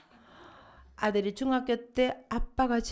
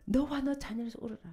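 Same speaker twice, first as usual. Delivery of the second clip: much softer, fast, 너와 stressed lightly; soft quick quote; 3 semitones higher, 7 dB quieter, faster than usual. Acted. Preacher repeating Jesus' words softly to the congregation. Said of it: "예수님께서 말씀하셨어요".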